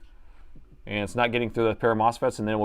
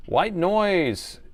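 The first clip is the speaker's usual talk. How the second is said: higher, drawn-out hype-man call of the name; announcer voice; 7 semitones higher than usual. Acted. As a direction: announce the donor like a game show. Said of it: "this announcer voice".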